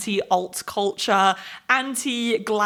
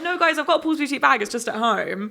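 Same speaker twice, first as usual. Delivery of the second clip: mock insistence; 4 semitones higher than usual. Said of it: "I literally sounded that".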